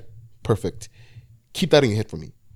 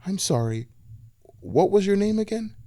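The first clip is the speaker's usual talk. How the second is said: put-on old lady voice; 10 semitones higher than usual. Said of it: "frowned and went".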